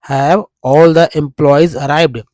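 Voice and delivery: slow, loud, word by word: "Have all the employees arrived?"; each word read out slowly; slow dictation. Shown as a demonstration. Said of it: "एक बार मैं बताऊंगा". (धीमे और साफ़ पढ़ा हुआ प्रश्न)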